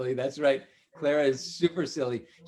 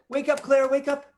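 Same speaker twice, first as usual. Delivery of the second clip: calling to wake; 9 semitones higher, 5 dB louder than usual. Acted.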